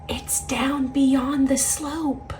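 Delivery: soft, far-off hushed voice; whisper. A narrator's reading. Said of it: "the whisper from before said".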